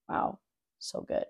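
breathy hushed wow, soft and slow; awed whisper. Real, not acted. Reading scripture to viewers, a hushed awed whisper. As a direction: let the wonder escape in a whisper.

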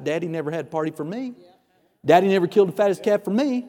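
mock sulk, muttered quickly; sulking son. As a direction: imitate a son's hurried little pity party. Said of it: "he's all sulking out on the back forty".

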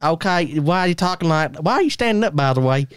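chatty put-on Texan; mock Texan small talk; Texan accent. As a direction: ask it as a nosy Texan.

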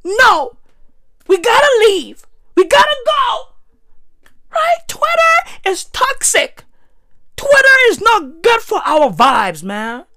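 hammed-up preachy influencer voice; mocking influencer. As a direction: play the smug hypebeast who quits Twitter. Mocking influencers leaving Twitter.

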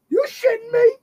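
wife's high shocked yell at the news; shocked shout. Retold or imitated. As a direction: yell it as the stunned wife. Wife reacts to shocking news.

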